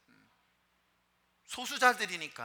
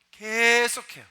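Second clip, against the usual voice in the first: 계속해요 repeated louder and higher; emphatic; 5 semitones higher, 9 dB louder, much slower than usual. Shown as a demonstration. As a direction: hammer 계속해요 with a louder push.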